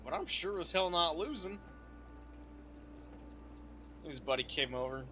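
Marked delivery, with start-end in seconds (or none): 0.0-1.6 defiant shout. Retold or imitated. Defiant boast about the fight.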